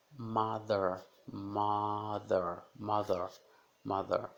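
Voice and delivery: mother said with an open ah; mother, mah-ther; A sound in mother. Shown as a demonstration. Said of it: "som de A". (mother com som de A)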